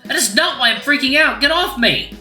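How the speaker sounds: high, loud angry outburst; barking back. Acted. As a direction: snap back while pulling free. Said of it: "I scoff and bark back".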